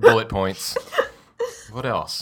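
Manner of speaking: spooky voice. Pretend. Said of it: "In that voice".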